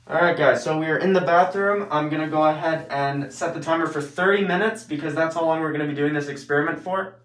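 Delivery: muffled behind a mask; talking through a face mask. Real, not acted. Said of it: "it is annoying to speak with it on".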